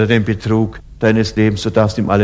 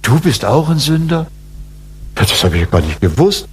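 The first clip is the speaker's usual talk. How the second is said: mock surprise; 2 semitones higher than usual. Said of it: "dass er dann sagt".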